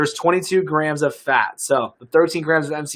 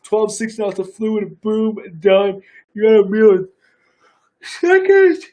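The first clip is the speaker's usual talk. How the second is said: excited; 6 semitones higher, 4 dB louder than usual. Real, not acted. Hyped product pitch.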